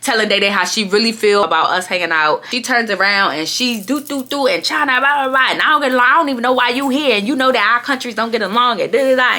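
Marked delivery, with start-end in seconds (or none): 3.9-9.4 mock ranting, pitched up; going off. Imitating the friend turning round on her, going off. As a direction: rattle off her rant with filler syllables. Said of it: "so now she's going off".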